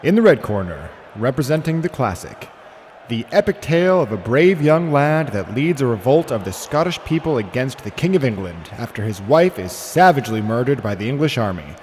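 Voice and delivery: building announcer call to a huge final shout; boxing announcer. Pretend. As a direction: call it like a ring announcer, roaring the title. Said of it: "announce the movies".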